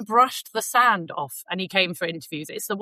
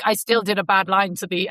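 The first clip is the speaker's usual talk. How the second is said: put-on German accent. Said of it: "I'm trying to do a really terrible German accent".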